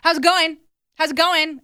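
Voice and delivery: imitating the boyfriend checking in over and over; mock boyfriend. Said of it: "being like".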